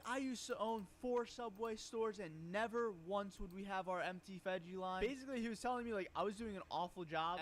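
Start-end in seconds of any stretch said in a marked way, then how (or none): 0.1-5.0 a mild, slowed imitation of a furious customer. Retelling the angry customer's complaint, lightly mock-stern. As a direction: lay down the law, slow and smug, barely angry. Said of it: "this, like, made him furious".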